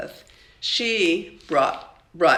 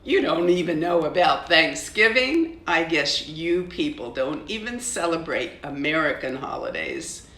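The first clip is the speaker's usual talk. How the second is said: scornful sneer. Acted. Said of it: "Elizabeth snorted".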